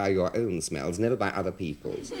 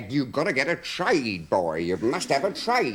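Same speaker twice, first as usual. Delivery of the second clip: lightly mimicked nagging dad, stretching the key word; nagging father. Father on at his son about a trade, mock nagging. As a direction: imitate a father harping on one point. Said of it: "He get on about trade all the time".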